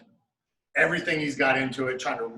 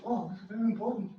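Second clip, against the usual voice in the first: quick, higher, softer mock voice; imitating Helson; 5 semitones higher, 7 dB quieter, faster than usual. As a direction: rattle it off fast like Helson, a touch higher. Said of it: "would talk like this".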